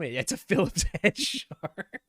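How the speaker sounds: giggling through the words; laughing through pain. Real, not acted. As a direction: laugh while it hurts. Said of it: "it hurts to laugh".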